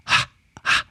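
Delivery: whispered breath puffs; breathy huffs. Shown as a demonstration. Coach demonstrates breath puffs. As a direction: push out only mouth air. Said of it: "hold your breath and then go".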